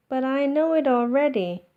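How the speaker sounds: fast, high and loud insisting; eager protest. Acted. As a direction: rush it out like a kid objecting. Max protests to teacher.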